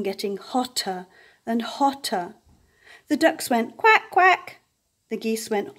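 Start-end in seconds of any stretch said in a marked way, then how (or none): 3.8-4.6 higher, squawky duck call; duck quack. A narrator's reading. Ducks' calls in picture book.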